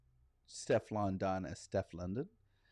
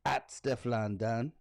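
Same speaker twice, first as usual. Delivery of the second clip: put-on Jamaican accent reading. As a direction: read a singer's words in a Jamaican lilt, half-earnest. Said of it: "read it in a Jamaican accent".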